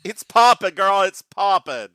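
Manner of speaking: loud sassy girl talk, hammed up; talking up the lip gloss like a diva. Host hyping her shiny lip gloss to her cohost, sassy and loud.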